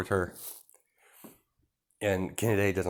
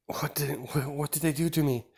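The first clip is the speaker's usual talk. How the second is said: mock fright; 7 semitones higher than usual. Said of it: "she's acting like she's freaked out".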